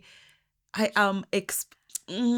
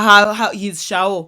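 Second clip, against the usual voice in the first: loud fake "ha, ha" trailing into talk; put-on amusement; mocking laughter; 5 dB louder than usual. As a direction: imitate someone jeering at an accent. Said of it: "laughs or makes fun of another person's".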